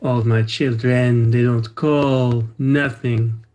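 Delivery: slow, sighing lament of a neglected mother; milk the self-pity, drawn out; drama queen. Acted. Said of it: "drama queen mode".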